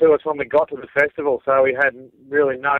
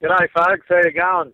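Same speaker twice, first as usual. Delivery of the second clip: higher-pitched mock Asian accent; 5 semitones higher, slower than usual. Guest playing the Chinese rap artist for the hosts, mock Asian accent. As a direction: put on a comic Chinese accent. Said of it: "very authentic Asian accent".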